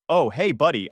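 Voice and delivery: light, offhand friendly hello; casual greeting. Retold or imitated. Zach greeting his friend at the door, casual. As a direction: greet your buddy as if nothing happened.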